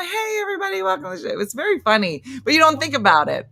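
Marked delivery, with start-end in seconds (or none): 0.0-1.4 much higher, shouted stage host welcome; open mic voice. Shown as a demonstration. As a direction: hype up the room like an emcee. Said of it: "And then this is my".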